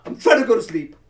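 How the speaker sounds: loud, drawn-out laughing yell; exasperated yell. Retold or imitated. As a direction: shout it, fed up and laughing. Yelling at noisy upstairs neighbors.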